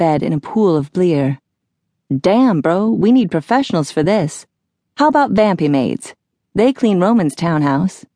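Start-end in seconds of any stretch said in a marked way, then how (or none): 2.1-8.0 a hint of a slangy dude, animated; casual bro voice, lightly put on; lightly voiced laid-back Phineas. Phineas suggests cleaners to Jack, lightly voiced casual dude.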